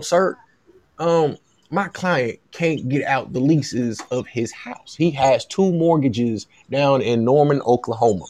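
lightly put-on Louisiana Southern accent, measured negotiating; pretend Southern agent. Agent asks USC to cover his client's mortgages, in a light Southern voice. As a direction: play a slightly Southern agent making a polite demand. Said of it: "This is my Southern voice".

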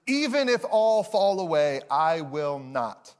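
loud then slow, firm vow; Peter declares. Acted. Pastor voicing Peter swearing loyalty, firm. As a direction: plant your feet and swear it. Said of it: "Peter declares".

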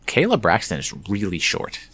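normal talking voice

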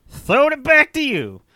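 high playful handoff call; high sing-song handoff. Real, not acted. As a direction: toss it over in a high lilt. Handing over, sing-song call.

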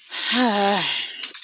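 long breathy sigh. Real, not acted. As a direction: sigh while searching. Searching online, waiting for results.

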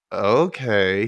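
drawn-out, reluctant agreement. Retold or imitated. Denny agrees to the riddle game, reluctant. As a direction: give in without wanting to. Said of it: "He's, like, really reluctant".

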